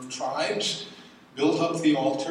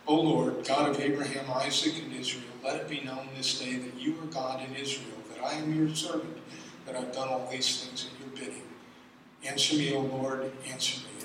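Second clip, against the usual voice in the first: earnest prayer; 2 semitones lower, 4 dB quieter than usual. Acted.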